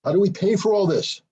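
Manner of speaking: hammed-up exasperated Europe; exasperated NATO. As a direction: whine it like a put-upon partner asking for help. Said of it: "nato's basically sitting there going".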